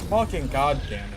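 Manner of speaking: angry cursing. Real, not acted. Gamer swearing at the game in anger. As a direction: spit the curse out.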